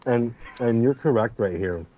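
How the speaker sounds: talking while chewing wasabi peas; mouth full. Real, not acted. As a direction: say it through a mouthful of snacks. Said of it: "I just happen to have wasabi peas in my mouth".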